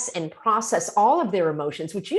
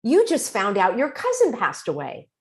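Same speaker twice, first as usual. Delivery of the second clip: gentle reflecting. Shown as a demonstration. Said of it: "You say".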